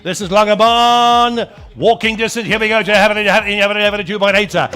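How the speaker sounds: rapid auction chant; auctioneer. Acted. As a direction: rattle off bids like an auctioneer. Auctioneer running the bidding.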